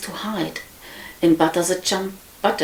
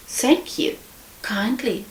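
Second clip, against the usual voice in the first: squeaky little pig; 6 semitones higher, 4 dB quieter, slower than usual. Acted. Little pig politely thanks the wolf.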